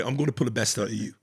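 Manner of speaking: quick, lightly imitated British accent. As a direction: say it briskly with a hint of British. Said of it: "in that British accent".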